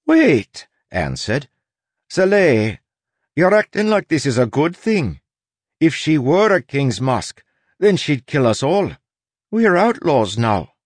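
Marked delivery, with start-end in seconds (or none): 0.1-0.7 high, loud "hold on" outburst; alarmed interruption. Acted. Anne interrupts Soleil, alarmed. 2.1-10.7 high-pitched, protesting crewmate; alarmed Anne. Acted. Anne warns Soleil they are outlaws now, alarmed.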